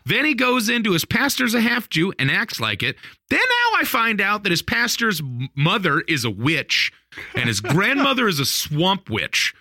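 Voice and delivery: high-pitched incredulous recap; bewildered exclamation. Retold or imitated. Teller reacts to Milton's wild claims, high baffled rant. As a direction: pile it up in exasperated disbelief. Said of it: "And I'm like".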